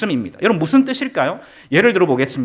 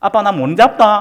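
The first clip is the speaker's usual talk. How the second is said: put-on loud, slow, drawn-out garbled toddler babble; 2 semitones higher, 5 dB louder than usual. Preacher retelling what his young son said to him, imitating toddler's unclear speech. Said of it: "아빠라는 말도 잘 못했어요".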